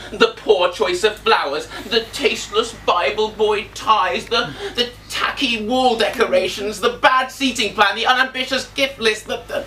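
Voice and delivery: theatrical, mounting indignation; exasperated rant. Acted. Ranting list of wedding complaints, building.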